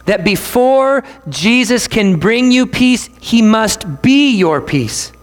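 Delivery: slow, weighty phrasing; slow preacher emphasis; slow and emphatic. Shown as a demonstration. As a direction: lay each word down deliberately. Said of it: "we have to say this".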